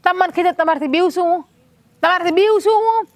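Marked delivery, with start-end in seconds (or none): 2.0-3.0 higher, mock-incredulous question; mock-incredulous repeat. Wife teasing her husband, repeating her question in mock disbelief. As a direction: throw the question back at him teasingly.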